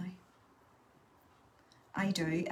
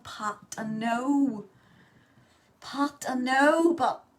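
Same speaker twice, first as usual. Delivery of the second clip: defensive; 5 semitones higher, 6 dB louder, much slower than usual. Real, not acted. Defensive reply to viewer nagging.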